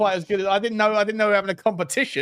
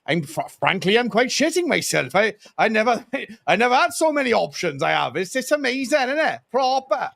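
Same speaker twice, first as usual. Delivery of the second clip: mock Welsh accent. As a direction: lightly voice the nervous manager in Welsh. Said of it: "I'm gonna carry on the Welsh accent".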